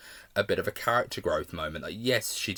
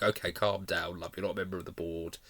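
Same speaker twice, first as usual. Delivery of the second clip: quiet thought; 2 semitones lower, 5 dB quieter than usual. Retold or imitated. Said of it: "made me feel like".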